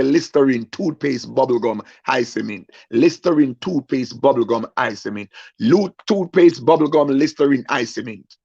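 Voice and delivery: rattled-off list as fake tongues; mock speaking in tongues. Crying man fakes tongues to cue the line behind him, mock chanting. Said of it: "I started to speak in tongues".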